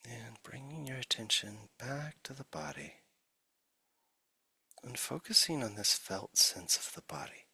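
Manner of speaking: unhurried meditation guide with long silences between phrases; guided meditation. Acted. Teacher settling listeners into the body, guided meditation. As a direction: ease listeners gently into stillness, leaving long pauses.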